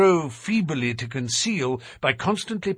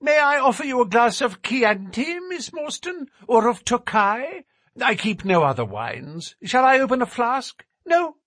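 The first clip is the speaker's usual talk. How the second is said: high, thin nervous little man; 10 semitones higher, 5 dB louder than usual. A narrator's reading. Narrator voices Thaddeus.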